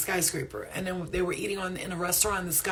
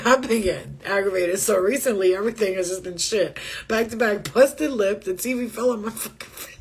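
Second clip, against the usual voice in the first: louder, whiny retelling of Brie; mocking Brie's complaint; 6 dB louder than usual. Repeating a viewer's bad-luck message, mock whine. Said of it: "she said".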